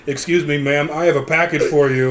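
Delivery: flat monotone delivery man voice; lightly voiced monotone delivery guy. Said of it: "in his fucking monotone voice".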